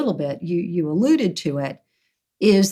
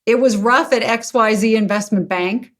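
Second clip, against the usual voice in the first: pleading father; 4 semitones higher than usual. Retold or imitated. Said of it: "they write to me and say".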